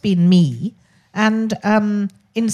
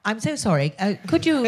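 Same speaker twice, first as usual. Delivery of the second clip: a touch of mock-posh English accent; lightly hammed-up posh English accent; faster than usual. Shown as a demonstration. Asking a stranger for help, in a lightly mock-posh English accent. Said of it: "rather than if I say".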